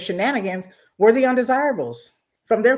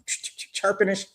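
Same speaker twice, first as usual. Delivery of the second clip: imitating a comedian; 4 dB quieter, faster than usual. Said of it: "what was it from Wild 'N Out?".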